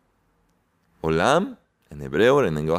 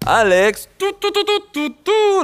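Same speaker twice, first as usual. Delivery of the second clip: excited calling out; 5 dB louder than usual. Real, not acted.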